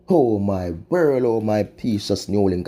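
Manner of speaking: drawn-out mournful sigh of a refrain; slow lament. Real, not acted. Vlogger lamenting to viewers, slow mournful refrain. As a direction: moan it slowly, shaking your head in disbelief.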